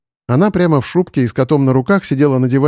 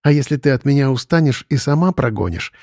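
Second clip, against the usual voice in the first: sighing cat; 4 dB quieter than usual. Acted. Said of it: "вздохнул кот".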